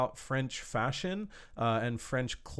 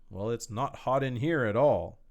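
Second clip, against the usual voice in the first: deadpan dry humor. Shown as a demonstration. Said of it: "Like, without emotion".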